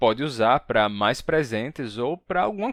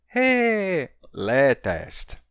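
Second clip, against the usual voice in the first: cheerful; 3 semitones higher, much slower than usual. Acted. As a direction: exclaim it gleefully. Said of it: "teacher acts out cheerful Iulia".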